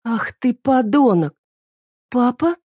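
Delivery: put-on high girlish cry of shock; a girl yelling at her dad, then catching herself; teen daughter startled into a shout; daughter's outburst. Daughter bursts out at father.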